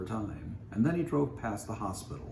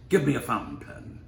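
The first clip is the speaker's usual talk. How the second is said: louder, higher curt surgeon command; snapped order; 8 semitones higher, 9 dB louder than usual. A narrator's reading. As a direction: snap it at the nurses. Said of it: "he snapped".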